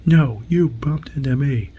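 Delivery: retold yell. Wesley retorts to the alien who bumped him, mock yell. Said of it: "Wesley yells at him and goes".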